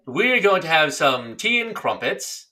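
slow, careful mock English accent; drawn-out put-on English accent; English accent attempt. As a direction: try out a storybook English accent, word by word. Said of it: "English accent".

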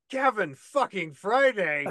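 slow, drawn-out mock holler; retold yell. Fan spotting a star in the VIP area, mild mock yell. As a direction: call out the name, stretching every word. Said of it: "I just looked at him and I yelled".

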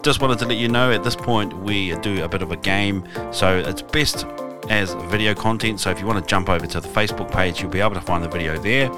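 upbeat podcast promo read; announcer voice. Acted. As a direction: read it like a radio host plugging the show. Host reads podcast promo announcement.

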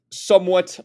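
"somewhat" set off by a pause and punched; emphatic "somewhat"; stress on somewhat. Real, not acted. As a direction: lean hard on the word "somewhat". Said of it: "emphasis on the somewhat".

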